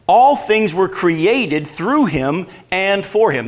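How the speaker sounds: slow, measured Bible reading; scripture reading. Real, not acted. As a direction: read it out solemnly, drawing out each phrase. Reads scripture aloud.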